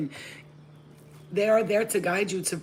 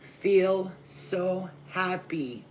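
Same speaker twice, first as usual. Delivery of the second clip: savoring happiness; much slower than usual. Real, not acted. Savoring the feeling.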